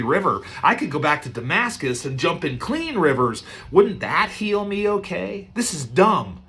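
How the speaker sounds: mild indignant rant; mock grumbling at the insult; offended Naaman. Preacher voicing offended Naaman, mildly indignant. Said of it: "He's like".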